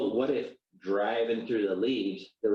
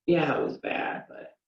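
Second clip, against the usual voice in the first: minimizing excuse; 5 semitones higher than usual. Pretend. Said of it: "You try to minimize it".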